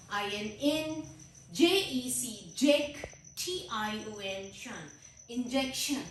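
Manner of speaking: slow split into इन, जेक, शन; teacher sounding out each syllable. Shown as a demonstration. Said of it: "इसके तीन syllables हैं".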